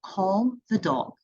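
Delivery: put-on slow, clear instruction to kids; slow prompt. Shown as a demonstration. Teacher coaching kids, slow and clear. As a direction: spell out the trick slowly. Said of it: "what you can tell them is".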